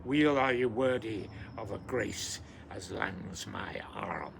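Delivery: measured recital in Scots dialect; poem recitation. Acted. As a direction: savour each old Scots word as a Burns Night reading. Recites Address to a Haggis.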